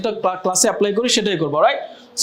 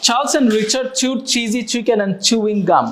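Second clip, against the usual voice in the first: slow demo read; much slower than usual. Shown as a demonstration. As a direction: read it out slowly so the class can follow. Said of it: "দেখতে শুনতে এরকম লাগবে".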